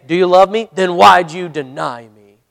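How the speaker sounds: mock reproach, slowing on the second question; imagined accusatory questioning; accusing. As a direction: challenge him, drawing out the second question. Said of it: "And he doesn't say".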